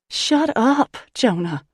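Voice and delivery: high, loud snapped yell; yelling back. Acted. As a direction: yell him down. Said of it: "Chantal yells back".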